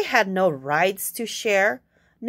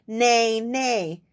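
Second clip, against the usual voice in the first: horse neigh. Acted. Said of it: "All she heard was".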